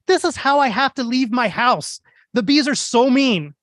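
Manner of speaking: high-pitched exasperated yell; imitating yelling neighbor. Neighbor lady yelling about her mean bees, high exasperated rant. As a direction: rant it shrilly at a stranger. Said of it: "she's yelling at me".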